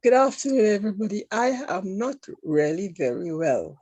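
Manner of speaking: hoarse, wheezy from a cold. Real, not acted. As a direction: speak through a chesty cold. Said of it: "You sound wheezy to me".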